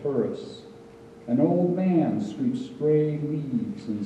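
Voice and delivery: measured, lifted poem-reading voice; poetry reading. Acted. Poet reading a Kyoto temple poem to an audience, measured recital. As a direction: read it as verse, each phrase set apart and falling at the close. Reads own poem aloud.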